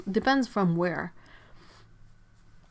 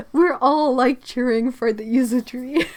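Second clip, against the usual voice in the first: excited; 5 semitones higher, 10 dB louder than usual. Real, not acted. Cheering for the yuzu tree.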